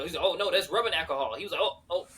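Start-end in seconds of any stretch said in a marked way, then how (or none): 0.2-1.3 mock drunk voice. S1 acting out drunk Marine. 1.6-2.1 mock dismay. S1 acting out drunk Marine.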